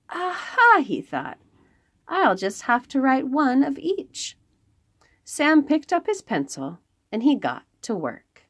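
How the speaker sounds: lively storybook read-aloud; reading to children. Acted. Librarian reads a picture book to the children, lively storytelling.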